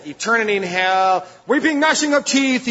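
rising into high, hammed-up doom; mock hellfire threat. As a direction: parody a movie preacher threatening damnation. Mocking movie-style threats of hell.

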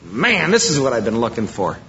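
thrilled visitor gushing over the new church; excited churchgoer. Retold or imitated. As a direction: gush like a thrilled convert. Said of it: "You're gonna go".

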